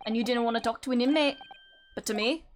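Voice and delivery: rough attempt at a Scottish accent; lightly voiced Scottish prison governor. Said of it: "this is gonna be sound awful".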